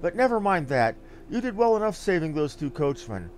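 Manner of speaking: lightly voiced gossipy NPC with a touch of flourish; a hint of a folksy storyteller relishing the phrase; chatty innkeeper type. Player voicing a gossipy NPC who praises the adventurer, lightly folksy.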